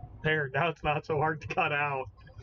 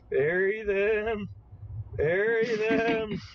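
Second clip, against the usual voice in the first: insistent build; 3 semitones higher, much slower than usual. Acted. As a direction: hammer each "Bury them" harder. Repeating an order, building up.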